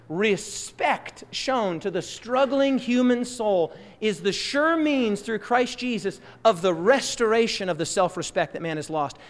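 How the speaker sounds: ordinary talk, nothing marked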